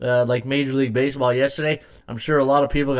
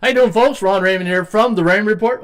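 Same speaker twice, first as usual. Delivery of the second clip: show intro; 5 semitones higher, 4 dB louder than usual. Shown as a demonstration. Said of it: "I always forget to do that".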